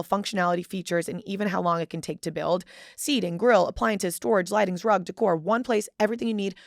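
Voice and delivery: conversational host-read sponsor spot; casual commercial read, listing the selling points; podcast ad read. Real, not acted. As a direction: read the sponsor copy briskly and evenly. Reads a sponsor ad for Wayfair.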